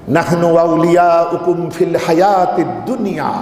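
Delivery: melodic Quranic recitation within a sermon. Real, not acted. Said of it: "নম্বর আয়াতে বলছেন".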